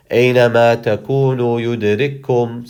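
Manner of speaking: fast, pushing through without a pause; rushed to the breath. Shown as a demonstration. Teacher shows reading on without stopping, fast. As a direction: race through the phrase until breath runs out. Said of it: "I have to say".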